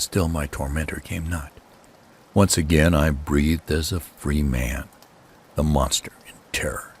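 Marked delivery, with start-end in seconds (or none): 5.5-6.9 hushed whisper, barely voiced; breathless storyteller's whisper; sudden whisper. A narrator's reading. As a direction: drop to a secret whisper for the monster. Narrator hushes over the fled cat.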